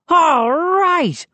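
high, drawn-out whoop; exultant exclamation. A narrator's reading. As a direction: whoop it in triumph. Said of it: "Moose exclaimed".

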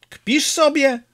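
high sharp yell of disbelief. A narrator's reading. Peppone yelling at his comrade in disbelief. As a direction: shout it in outraged disbelief. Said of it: "wrzasnął Peppone".

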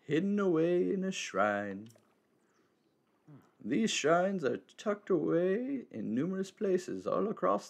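lightly voiced wise old man; a hint of a cryptic elder. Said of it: "I gotta go back to it".

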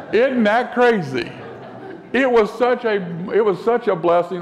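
laughing delight. Real, not acted. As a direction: laugh through it, delighted at the coincidence. Delighted surprise at meeting friends.

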